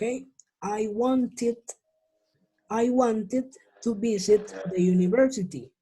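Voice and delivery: "wanted" said wan-tid inside the sentence. Shown as a demonstration. Teacher giving an example sentence, ID ending. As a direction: carefully end "wanted" in -id. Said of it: "van a sonar como I D".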